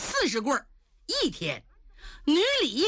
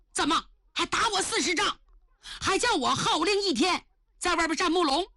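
higher, dismayed protest; stunned dismay; 5 semitones higher than usual. Acted. Official stunned by his punishment, dismayed protest. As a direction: protest in mild shock. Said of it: "女李吓傻了".

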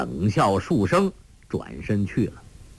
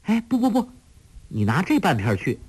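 calling out; 9 semitones higher, faster than usual. Acted. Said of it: "黄蓉叫道".

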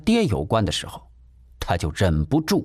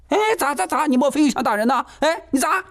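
high, fast flustered bluster; stubborn while backing off; faster than usual. Acted. Landlady backing away from the son, high and flustered. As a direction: bluster as you retreat. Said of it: "一边还嘴硬地说".

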